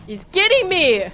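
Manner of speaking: high, loud panicked cry; real fright as he hits; panicked yell. Real, not acted. Player crying out while a mob attacks her, panicked.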